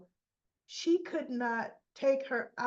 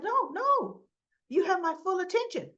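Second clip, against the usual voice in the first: high, loud, quick protest; hammed-up high-pitched assurance; flustered protest; 9 semitones higher, 4 dB louder than usual. Lucy insists Martin has her attention, high and flustered.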